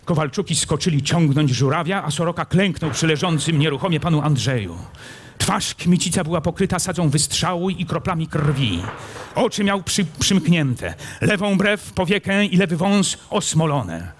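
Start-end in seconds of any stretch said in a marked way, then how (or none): none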